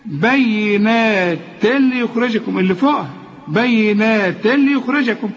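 slow, drawn-out tajweed recitation; Quran recitation. Shown as a demonstration. Tajweed teacher models the verse for a student, recited slowly. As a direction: recite with long measured vowels.

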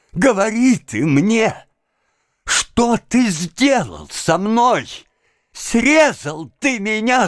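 slow, anguished accusation building in force; breathless fury. A narrator's reading. Master accusing servant of ruining him, beside himself with rage. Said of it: "теряясь от бешенства".

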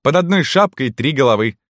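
very high, delighted woman's cry; joyful exclamation. A narrator's reading. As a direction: exclaim as if jumping for joy. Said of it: "запрыгала от радости". (радостный высокий возглас маркитантки)

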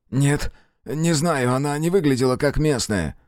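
a hint of a frightened man; nervous prisoner. Jacob answers.

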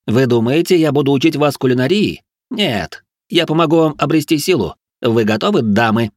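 high, manic motivational speech; crazed instructor rallying pupils; strange, squealy voice. A narrator's reading. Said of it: "Голос Ричарда стал очень странным, выше обычного и с визгливыми нотками".

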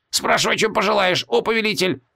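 high, frightened grovelling plea; pleading demon. A narrator's reading. Frightened demon begs the mage to question him. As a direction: grovel before your new master.

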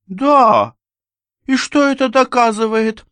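very high, loud scornful retort; mocking lady. A narrator's reading. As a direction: taunt him, unafraid. Анна насмехается. (очень высокий насмешливый ответ)

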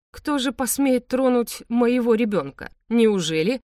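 slow, pitch up, mocking threat; slow menace. A narrator's reading. Hero slowly taunts the frightened father, menacing. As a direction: drag it out like a challenge.

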